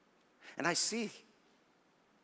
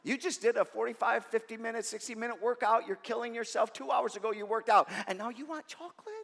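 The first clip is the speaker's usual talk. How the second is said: nagging inner voice; 4 semitones higher, 4 dB quieter than usual. Retold or imitated. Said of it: "a little voice pops up".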